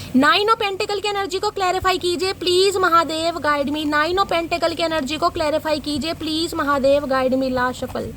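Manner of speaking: chant-like appeal to a deity, last words drawn out; prayer invocation. Real, not acted. Repeats invocation while shuffling cards.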